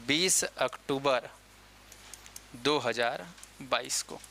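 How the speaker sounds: spaced out slowly for note-taking; measured, slow delivery of a date; slow dictation. Real, not acted. Teacher giving students a date to remember, slow and deliberate.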